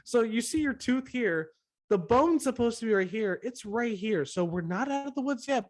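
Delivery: put-on talking down like to a child. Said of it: "they're like".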